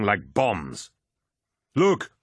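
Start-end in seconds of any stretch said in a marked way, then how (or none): 1.8-2.1 short, high cry of alarm. A narrator's reading. Bull to his swarmed comrades, high cry. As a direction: cry out to alert your comrades. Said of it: "Bull cried out".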